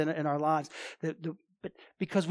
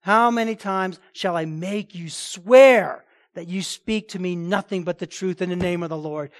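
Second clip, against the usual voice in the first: angry king; 4 dB louder than usual. Retold or imitated. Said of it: "and he's angry".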